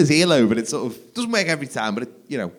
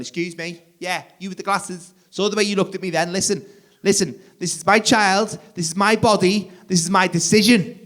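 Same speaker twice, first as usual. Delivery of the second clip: indignant woman; 6 semitones higher than usual. Retold or imitated. Breastfeeding woman confronts him.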